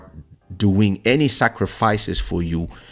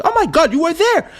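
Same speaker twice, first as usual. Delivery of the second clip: mock surprise; faster than usual. Recognizing her in old photos.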